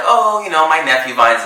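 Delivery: high-pitched imitation of a casual brag; mock casual boast. Podcaster mimicking someone bragging about a nephew, mock casual boast. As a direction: toss it off as a mock humblebrag, starting high.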